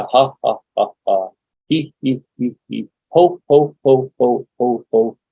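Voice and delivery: mock laugh cycling through ha, hee and ho; forced practice laugh. Shown as a demonstration. Laughing workshop drill switching vowels, deliberate fake laughter. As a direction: chant out a fake laugh, syllable by syllable. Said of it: "We're going to practice laughing".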